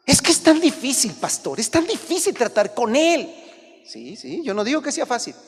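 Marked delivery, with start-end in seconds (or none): 0.1-3.3 higher, whiny lament; complaining parent. Pretend. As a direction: sigh it out to the pastor.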